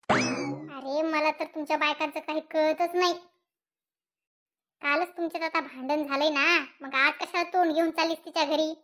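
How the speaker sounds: a puzzled husband scolding his wife; a hint of a fed-up husband. Husband voiced in skit.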